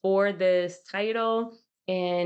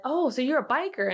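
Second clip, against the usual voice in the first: higher, mildly amused coworker question; coworker's surprise; 7 semitones higher, faster than usual. Retold or imitated. Coworker on a Zoom call asks if she's a biker, higher and surprised. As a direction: imitate a coworker's bright surprise. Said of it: "one of the ladies on the other team said".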